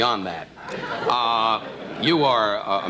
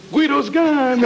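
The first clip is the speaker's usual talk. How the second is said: raised, put-on mobster voice; 8 semitones higher, much slower than usual. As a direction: say it like a Brooklyn mobster. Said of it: "Carmine Gambonazzo said".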